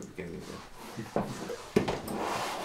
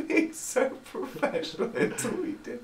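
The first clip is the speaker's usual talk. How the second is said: mock admiring; slower than usual. Mocking praise of partner.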